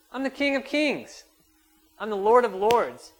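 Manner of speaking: loud, high, slow mock disbelief; sarcastic Jesus. Preacher voicing Jesus answering the doubting father sarcastically. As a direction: throw the words back, sarcastic and loud. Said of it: "it can be sarcastic the way he says it".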